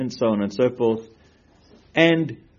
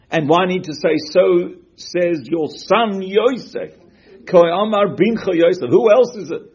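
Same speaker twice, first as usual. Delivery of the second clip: louder, higher, pressing questions; emphatic questioning; 8 semitones higher, 8 dB louder than usual. Real, not acted. Teacher pressing students on the verse, loud and insistent. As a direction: push the questions hard, rising.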